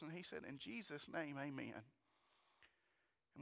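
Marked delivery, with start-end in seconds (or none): 0.5-1.8 soft, low close of a prayer; hushed, low amen in retelling; quoted prayer. Retold or imitated. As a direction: quietly imitate a friend ending a prayer. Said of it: "Rudy prayed for us".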